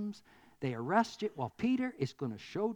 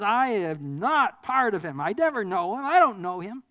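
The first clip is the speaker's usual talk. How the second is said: mock Peter cursing that he never knew him; swearing denial; 3 semitones higher, 8 dB louder than usual. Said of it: "he curses and swears and says".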